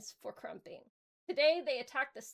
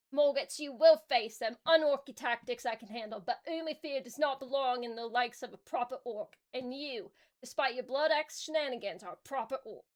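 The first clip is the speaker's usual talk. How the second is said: lightly voiced orc boss scolding, a bit louder; a hint of a warboss laying down orders; 4 dB louder than usual. Warboss scolding his cowardly officer, slightly louder.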